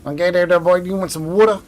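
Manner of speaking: lightly put-on Southern accent, fast and slurred; a hint of a fast Southern accent; Southern mumble. Shown as a demonstration. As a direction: mumble it quick like a Southern local. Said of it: "how they spoke".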